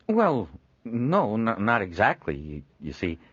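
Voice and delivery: halting, stumbling words; flustered, tripping over each syllable; a nervous young artist stammering. Acted. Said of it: "Leontine stammered".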